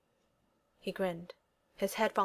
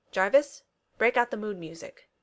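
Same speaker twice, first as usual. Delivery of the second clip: calling out; 2 semitones higher, 6 dB louder than usual. Acted. Tony calls out to his AI.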